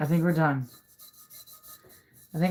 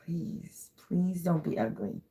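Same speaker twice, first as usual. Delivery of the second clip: trembling whisper; 7 dB quieter than usual. Real, not acted. I'm so nervous.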